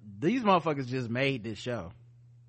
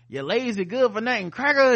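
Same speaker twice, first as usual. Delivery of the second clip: rising, louder mocking insult; 6 semitones higher, 5 dB louder than usual. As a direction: spit the insult with contempt. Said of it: "they do that to white people".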